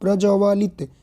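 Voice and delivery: प्र ज व लित split into separate syllables. Shown as a demonstration. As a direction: spell प्र ज व लित out slowly. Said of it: "यहाँ पर नहीं".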